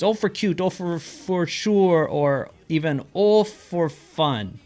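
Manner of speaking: slow, drawn-out "Oh, for" phrases; Minnesota phrases. Shown as a demonstration. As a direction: stretch them in a Minnesota lilt. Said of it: "many different situations".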